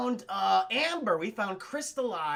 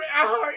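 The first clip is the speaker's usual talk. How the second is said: loud, high burst of fake bawling; mock crying; 6 semitones higher, 8 dB louder than usual. Streamer imitating the actor at the dinosaur reveal, mock sob. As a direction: wail briefly, imitating a man overcome. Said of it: "he's just crying".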